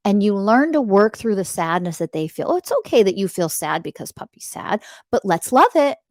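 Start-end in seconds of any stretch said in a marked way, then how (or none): 2.5-6.0 tender parent voice. Shown as a demonstration. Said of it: "What should have happened was".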